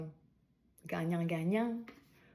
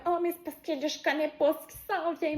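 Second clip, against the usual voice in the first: anxious inner voice; 8 semitones higher than usual. Retold or imitated. Voicing a worried listener's thought.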